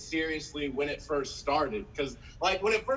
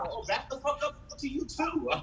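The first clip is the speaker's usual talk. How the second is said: mock friendly greeting; 8 semitones higher than usual. Acted friendly reply to new greeting.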